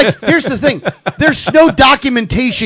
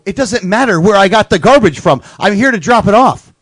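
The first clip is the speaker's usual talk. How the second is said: louder, insistent retort; retold exasperation; 2 semitones higher, 5 dB louder than usual. Customer retelling his comeback to the dump worker, mildly exasperated. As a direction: push back firmly, as retold.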